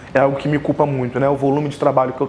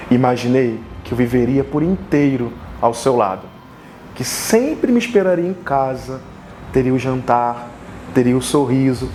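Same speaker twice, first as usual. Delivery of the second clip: declamação de poema em frases curtas, com pausas; poesia improvisada; 2 semitones lower than usual. Real, not acted. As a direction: recite como um poema de amor, pausando entre os versos. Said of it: "através de uma poesia que eu vou improvisar". (declamação poética pausada)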